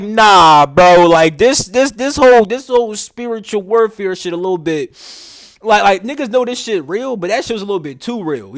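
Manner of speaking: loud, rattled and emphatic; shaken exclaim. Retold or imitated. Retelling to viewers how the spell shook him, loud. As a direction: blurt it out like it spooked you. Reacting to spiritual warfare shock.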